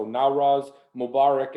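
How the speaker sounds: "Nowruz Mubarak" said carefully the Persian way, by a non-native speaker; attempted Dari accent. Shown as a demonstration. Lawyer greets the Afghan community in their language, careful learner's Dari pronunciation. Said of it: "I'm gonna try my best here to say this, uh, with the best accent I can".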